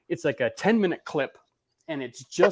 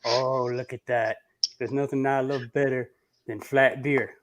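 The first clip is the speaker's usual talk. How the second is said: imitating Brian. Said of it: "I will show you my impersonation of Brian".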